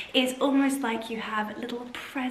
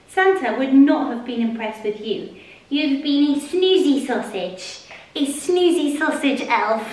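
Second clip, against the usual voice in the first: louder playful telling-off of the sleepy helper; teasing a pet; 5 dB louder than usual. Real, not acted. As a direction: scold the snoozy pet fondly, half joking.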